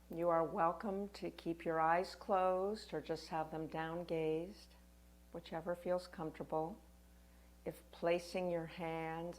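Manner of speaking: gentle meditation guide with long pauses; guided meditation. Acted. Yoga teacher guiding listeners through a winter solstice practice, guided meditation. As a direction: lead them unhurriedly, phrase by phrase, leaving room to breathe.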